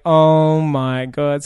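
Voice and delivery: slow, loud, drawn out "oh my God"; mock disbelief. Two friends reacting to the grave proposal, slow mock disbelief. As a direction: stretch it out in stunned disbelief. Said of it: "you and I were just like".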